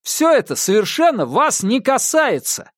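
angry. A narrator's reading. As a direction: snap it back in outrage. Angry outburst continues after shout. (возмущённо, на повышенных тонах)

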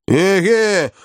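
sudden high exclamation; exclaiming. A narrator's reading. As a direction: burst out in alarm. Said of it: "воскликнул Иван".

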